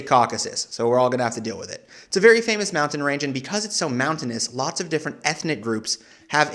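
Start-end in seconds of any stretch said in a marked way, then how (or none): 0.0-0.7 Caucasus said as KAW-kuh-sus; own preferred pronunciation. Shown as a demonstration. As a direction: stress the first syllable of Caucasus and weaken the middle vowel. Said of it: "roast me for my pronunciation".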